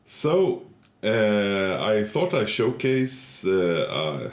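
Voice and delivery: stuffy nose from a cold; blocked nose. Real, not acted. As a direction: talk with a heavy head cold. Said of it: "sorry I have the man cold from hell right now".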